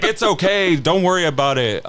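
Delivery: high, lightly comforting mom voice; mock reassuring mom. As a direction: soothe him while half laughing. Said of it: "And she's like".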